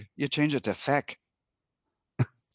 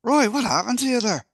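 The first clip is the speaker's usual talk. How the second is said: higher-pitched, startled barman calling out; joke-telling bartender, raised pitch; concerned bartender; 7 semitones higher than usual. Acted. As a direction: call out in mock alarm to a regular. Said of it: "the bartender says".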